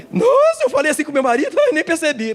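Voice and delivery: high gasping surprise; a woman startled by her own recording; shocked realization. Acted. Wife hearing her recording, gasping in shock.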